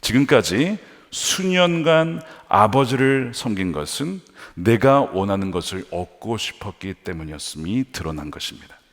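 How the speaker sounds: normal talking voice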